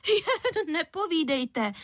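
an outraged mother scoffing; indignant scoff. A narrator's reading. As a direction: wave off her denial. Angry caller accuses.

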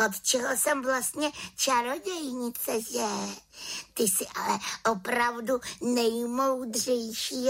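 half-whispered thanks; grateful witch. Acted. Witch thanks raven, high and hushed.

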